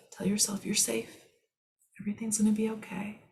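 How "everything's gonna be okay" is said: hurried hushed reassurance; quick comforting whisper. Acted. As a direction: whisper it fast to calm yourself. Telling yourself you're safe.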